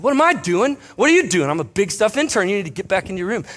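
high, exasperated mock scolding; retold indignation. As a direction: play the outraged intern. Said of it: "I said".

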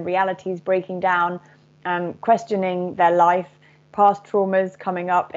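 steady, measured message spoken as the collective "we"; channeled message. Acted. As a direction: deliver a gentle message from star beings to listeners. Channeling continues.

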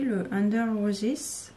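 English title in a French accent, said slowly; franglais accent. Real, not acted. Presenting a deck to viewers, slow French-accented English. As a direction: say Under Roses the French way, slow and careful. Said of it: "avec mon superbe accent franglais".

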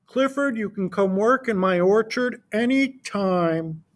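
Farmer Brown. Acted. Farmer Brown invites Clifford.

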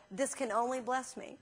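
quiet affirmation. Retold or imitated. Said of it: "affirmation, he'd been using".

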